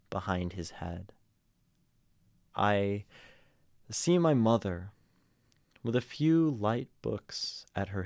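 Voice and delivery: deliberate read, pausing between lines; earnest poetry reading. Real, not acted. Streamer restarting the poem for viewers, as an earnest read. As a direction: recite it with feeling, line by line. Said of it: "give it an earnest read".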